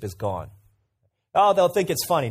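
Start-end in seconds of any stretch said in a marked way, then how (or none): 1.3-2.3 naive confident quote. Retold or imitated. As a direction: lightly imitate a careless adviser. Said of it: "No, they don't think it's funny".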